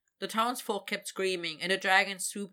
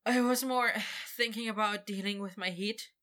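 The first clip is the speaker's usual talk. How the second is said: breathless; 3 semitones higher than usual. Acted. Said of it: "Victor said breathlessly".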